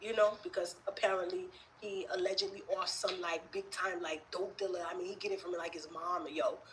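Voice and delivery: put-on New York accent. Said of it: "Was that a good New York accent".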